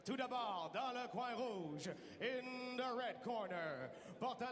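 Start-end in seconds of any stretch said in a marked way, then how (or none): 0.0-2.9 fight promoter. Real, not acted. Ring announcer opens the bout.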